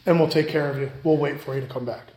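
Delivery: calm a worried customer down; kind reassurance. Retold or imitated. Associate reassuring a stranded customer, soft and kind. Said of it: "Or he can say".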